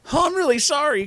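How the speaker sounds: high-pitched eager apology; apologetic Crash. Acted. Boy apologising for knocking her down, high-pitched.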